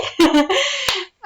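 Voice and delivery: bright high-pitched giggle; little high laugh at her own cheer. Real, not acted. Laughing after wishing happy year.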